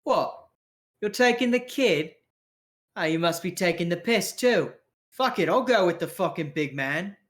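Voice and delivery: incredulous, rising-pitched protest; Skilch. Acted. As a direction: balk in disbelief, then grudgingly give in. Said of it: "And Skilch is like".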